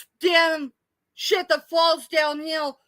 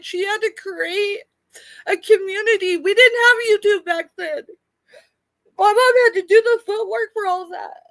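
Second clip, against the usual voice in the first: crying; 4 semitones higher, 3 dB louder than usual. Real, not acted. Crying remembering her mom.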